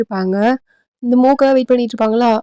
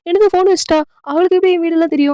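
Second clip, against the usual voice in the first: higher-pitched, puzzled question; puzzled wondering; 5 semitones higher, faster than usual. Acted. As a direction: wonder aloud in mild disbelief. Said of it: "அப்படின்ற மாதிரி இங்க யோசிச்சுட்டு இருக்கா".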